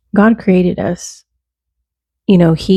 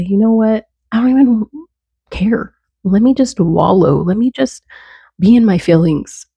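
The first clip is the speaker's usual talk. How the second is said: higher, whiny i-give-up voice; fed-up whine; 4 semitones higher than usual. Retold or imitated. Fed-up believer voicing her give-up moment, higher and whiny. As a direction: toss it all aside with a mock sulk. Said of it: "wanna just throw in the towel and say".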